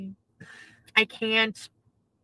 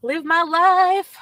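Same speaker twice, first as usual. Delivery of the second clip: slow declaration; 7 semitones higher, 6 dB louder, much slower than usual. Real, not acted.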